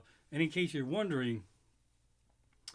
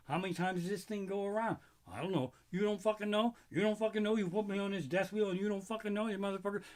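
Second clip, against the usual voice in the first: higher, indignant scolding; mock outrage; 5 semitones higher, faster than usual. Comic ranting at the Ferris wheel operator, hammed up. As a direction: chew out the ride guy.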